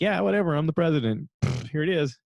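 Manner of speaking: mock brazen nonchalance. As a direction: imitate a shameless big shot shrugging it off. Voicing a brazen, careless president.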